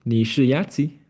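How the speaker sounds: "Ni shi yatsi" with the pitch rising into a question; question intonation. Shown as a demonstration. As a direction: ask "Ni shi yatsi" by tune alone, lifting the end. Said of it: "con entonación. Te muestro". (entonación de pregunta en "Ni shi yatsi")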